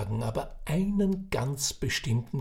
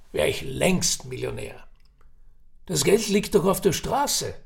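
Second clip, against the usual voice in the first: put-on raised, chatty old Viennese man; old café gossip; 5 semitones higher, 4 dB louder than usual. Old man sizing up Ferdinand at the café, chatty. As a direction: spin the yarn like a knowing old uncle.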